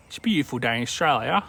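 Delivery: quick, run-together Australian accent; put-on Australian accent at a brisk pace. Shown as a demonstration. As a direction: rattle it off in broad Aussie.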